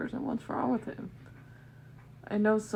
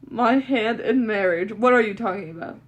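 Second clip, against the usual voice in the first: outraged disbelief; 9 dB louder than usual. Acted. Shocked outrage.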